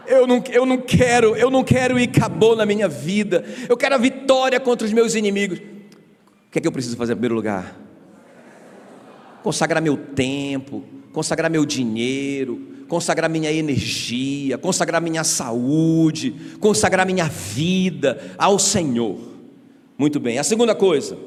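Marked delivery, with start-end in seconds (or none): 0.1-5.6 preaching declaration. Acted. 9.4-19.2 solemn litany. Acted.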